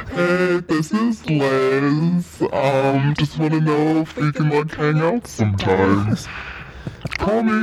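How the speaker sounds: sultry voicemail. Pretend. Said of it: "leave some answering messages".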